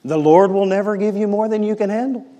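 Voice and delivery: the wrong version, said as cheap comfort; quoting bad advice in a lightly pious voice; imitating a well-meaning friend; mock pious platitude. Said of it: "And somebody goes".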